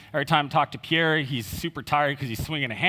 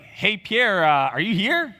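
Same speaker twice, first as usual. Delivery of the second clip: calling out through the house, higher and louder; 5 semitones higher, 4 dB louder, slower than usual. Retold or imitated. Brother calling out to Pierre in his empty house, loud call.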